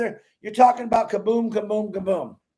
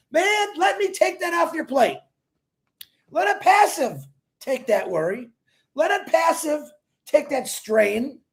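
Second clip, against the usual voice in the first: pitchman's rousing shout; emphatic shout; 4 semitones higher than usual. Real, not acted. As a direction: lift the worry off them with a big rally cry. Pitching relief from money worries.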